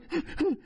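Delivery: mock sobbing bursts; imitated crying. Man retelling tears before police, mock sobs. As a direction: imitate sobbing in front of someone. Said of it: "'cause I was crying".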